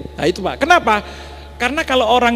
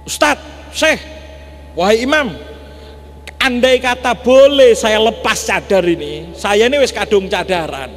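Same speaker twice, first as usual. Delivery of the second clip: angry wife. Retold or imitated. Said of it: "ngamuk bilang begini".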